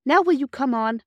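clipped and impatient, wanting to move on. Acted. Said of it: "said Peter impatiently".

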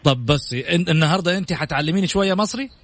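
playful attempt at Egyptian Arabic; Egyptian Arabic accent. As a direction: Egyptian dialect put on for fun. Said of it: "حقيلك باللهجة المصرية دلوقتي أهو".

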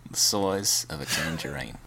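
slow mock-English drawl; Michael Caine. Co-host repeating the celebrity bit, slow mock-English. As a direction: draw it out in a silly English accent. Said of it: "We just both do Michael Caine impressions".

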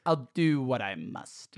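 Obi-Wan line, slow. Retold or imitated. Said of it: "sharp and chirped".

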